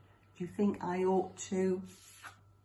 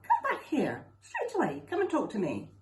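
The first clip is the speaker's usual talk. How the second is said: a storybook king's raised summons, pitched high; king summoning the servant, louder and higher; calling back sternly; 6 semitones higher, 4 dB louder than usual. Acted. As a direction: call him back, mildly stern.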